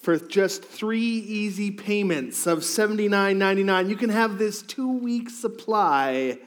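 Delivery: lightly voiced infomercial pitchman; home shopping host. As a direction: sell it like a TV ad. Infomercial parody after Home Shopping mention.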